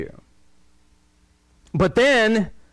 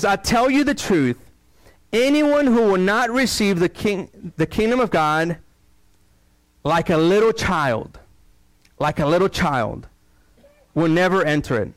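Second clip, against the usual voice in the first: scripture reading. Acted. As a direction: let each phrase land with pauses. Reading Jesus' words from Mark.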